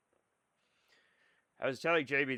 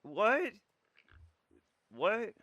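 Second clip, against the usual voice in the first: exasperated whine; 5 semitones higher, 3 dB louder than usual. Real, not acted. Complaining to chat about nerds.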